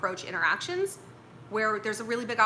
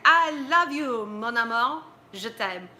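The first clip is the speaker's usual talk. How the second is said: mock romantic declaration; 4 dB louder, slower than usual. Mock love confession gone wrong.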